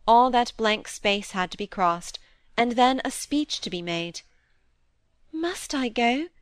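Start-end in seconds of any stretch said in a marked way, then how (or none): 5.3-6.3 a mild, pleading little question; pitiful pleading. A narrator's reading. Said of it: "in the most pitiful and pleading voice possible".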